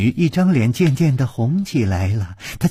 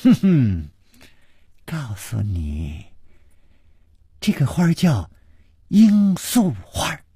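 smug; 5 semitones higher than usual. Acted. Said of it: "黄衣少女得意的一笑".

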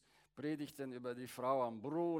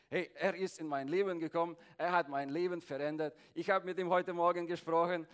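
joyful testimony; 5 dB louder, faster than usual. Retold or imitated. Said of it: "wenn du sagst".

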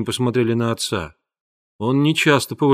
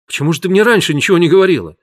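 fast, higher and louder disbelief; disbelieving; 6 semitones higher, 6 dB louder, much faster than usual. A narrator's reading. Husband to wife about the baby, rushed disbelief. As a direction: rush it out, unable to believe her. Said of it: "недоверчиво сказал Бадони".

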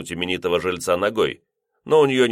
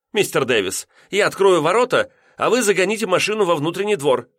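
much higher, brisk instruction; firm landlady; 10 semitones higher, 3 dB louder than usual. A narrator's reading. Landlady telling lodger where to park, high and brisk. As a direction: take charge briskly.

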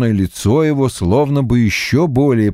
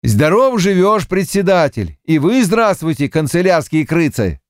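put-on a hearty old farmer voice, raised; lightly voiced jovial farmer; cheerful peasant greeting; 7 semitones higher than usual. A narrator's reading. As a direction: greet them with a grin. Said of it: "с улыбкой обратился".

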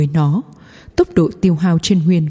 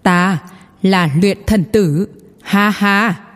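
laughing; slower than usual. A narrator's reading. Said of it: "cười nói".

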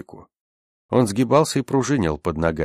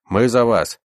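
louder, higher throaty call; guttural cry; 5 semitones higher, 5 dB louder than usual. A narrator's reading. Rescuer calls to the Russians, guttural cry. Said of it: "пронёсся гортанный крик".

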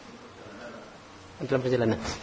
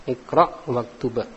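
drawn-out iqra waktub, each word spaced; slow repeat; slower than usual. Shown as a demonstration. Teacher repeating the phrase slowly so students copy it. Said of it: "Dibacanya sama iqra waktub ya".

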